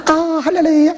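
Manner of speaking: mock oily hallelujah, pitched high; hammed-up cheesy praise; greasy, cheesy. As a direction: imitate a sappy, unctuous worshipper. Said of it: "느끼해서 역사가 안 일어납니다".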